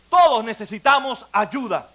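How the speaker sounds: firm proclamation. Real, not acted. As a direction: proclaim it to the whole room.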